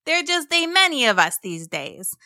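friendly, chatty mosasaur voice. A narrator's reading. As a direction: play a sociable, lonely sea monster. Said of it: "Mo responded".

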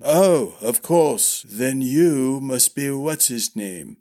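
doddering recognition, slowing at the end; a hint of a forgetful old man; lightly voiced old master-at-arms. Old master half-remembering his pupils, lightly doddering.

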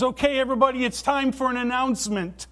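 high, loud announcer call; mall manager announcing. Retold or imitated. Pastor retelling the Elf scene, loud announcer voice. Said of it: "the mall manager says".

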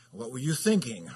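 mild sarcastic scold. Shown as a demonstration. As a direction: needle the child with a sarcastic edge. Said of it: "you put a little bite to it, a little sarcasm".

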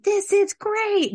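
high, loud, drawn-out mock enthusiasm; imitated delight. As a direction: imitate a thrilled little girl, high and slow. Retold enthusiastic child's reaction.

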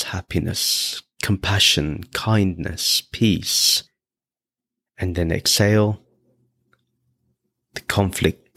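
measured meditation voice, long pauses between phrases; guided meditation. Real, not acted. Teacher guiding listeners to breathe in bliss, calm guided meditation. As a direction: lead the breathing in short, spaced-out, even phrases.

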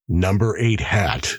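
slow, lightly puzzled echo; warden repeating. Acted. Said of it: "repeated the warden".

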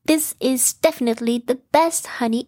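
stumbling over words in delight; Pooh voice. Acted. Pooh voiced savoring honey.

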